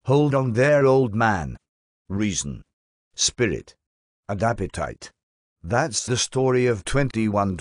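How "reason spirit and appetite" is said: mock solemn echo. Mocking echo of the lecture topic.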